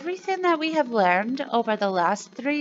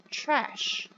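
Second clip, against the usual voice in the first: whispered word; 4 semitones higher, 4 dB quieter than usual. Shown as a demonstration. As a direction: whisper "Trash" with no voice. Teacher repeats word softly.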